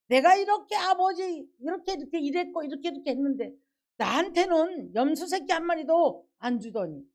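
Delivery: a hint of a sulky son protesting to his father; complaining elder son. Pastor voicing the elder son griping to his father, mildly whiny.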